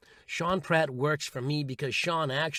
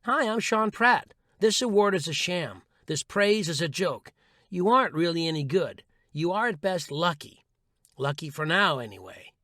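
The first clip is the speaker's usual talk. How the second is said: inner critic voice. Retold or imitated. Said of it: "will say".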